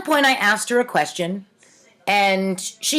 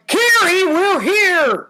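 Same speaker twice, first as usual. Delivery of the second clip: higher, louder call of Kiri; mild mock scream; 8 semitones higher, 3 dB louder, slower than usual. A narrator's reading. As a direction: wake your friend up, excited. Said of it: "screamed Lynn".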